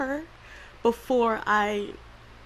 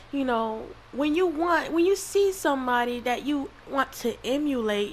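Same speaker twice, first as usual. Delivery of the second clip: real tearful voice, pitched up and climbing; crying; 4 semitones higher than usual. Real, not acted. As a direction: explain through tears, voice rising high. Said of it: "I wasn't gonna cry through this".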